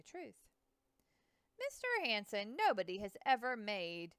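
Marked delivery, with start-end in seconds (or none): 1.6-4.1 earnest. Acted. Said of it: "Lewis said earnestly".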